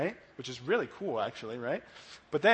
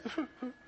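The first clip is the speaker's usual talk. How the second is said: soft, high mock sobs; little put-on sniffling sobs; imitated weeping; 7 semitones higher, 11 dB quieter than usual. Imitating Mary Magdalene weeping at the tomb, mock sobbing. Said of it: "she's crying and she's weeping".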